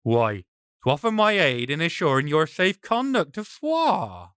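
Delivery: a sly brigand calling out his offer. Acted.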